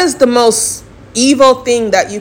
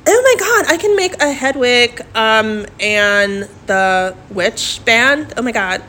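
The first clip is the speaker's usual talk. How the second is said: shrieking jackpot winner. Real, not acted. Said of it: "I really am talking like that".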